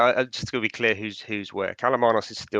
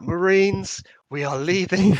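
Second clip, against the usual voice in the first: high, loud rallying shout; shouted command; 9 semitones higher, 5 dB louder, slower than usual. Acted. Kalamanos orders the marines out of the dungeon, shouting. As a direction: call the troops out, raised and high. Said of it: "Kalamanos is gonna shout".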